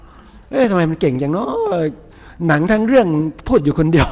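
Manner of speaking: a touch of awed surprise; admiring wonder. Retold or imitated. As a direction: marvel at the movie dubber under your breath. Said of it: "นึกชื่นชมในใจนะเนาะ".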